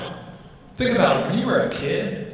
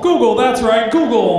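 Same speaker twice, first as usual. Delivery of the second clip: loud, higher recorded sales voice; robocall voice; 6 semitones higher, 6 dB louder than usual. Acted. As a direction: imitate a punchy robocall greeting. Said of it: "One day I get the call".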